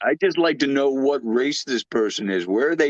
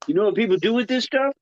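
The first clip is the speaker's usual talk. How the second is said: mock Axel; 4 semitones higher, faster than usual. Quoting Axel's coffee joke.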